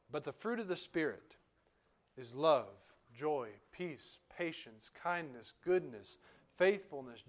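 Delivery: measured, solemn Bible reading; scripture reading. Acted. Reads Galatians aloud.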